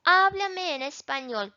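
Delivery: "Háblame" stressed on "Há"; stress kept on first syllable. Shown as a demonstration. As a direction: hit the "Há" of "Háblame", then ease off. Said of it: "to keep that original emphasis".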